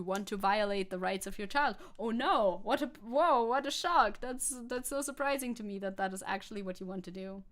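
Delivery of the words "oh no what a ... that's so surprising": mock astonishment, stressing each exclamation; sarcastic shock. Streamer mocking opponents' supposed surprise, sarcastic shock. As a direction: act shocked at something entirely predictable.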